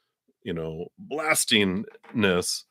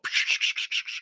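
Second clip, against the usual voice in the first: unvoiced rapid whooshing noise; imitated clashing staffs. Reader imitating a kung fu movie fight, swishing sound effect. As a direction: make quick hissy swishes of fighting sticks. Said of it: "and they're all".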